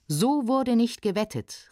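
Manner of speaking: mildly enraged outcry; angry cry. Acted. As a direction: object indignantly. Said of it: "rief erzürnt der Gast".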